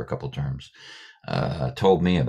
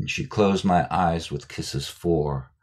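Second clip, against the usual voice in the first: slow recitation; much slower than usual. Retold or imitated. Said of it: "quotes Keats".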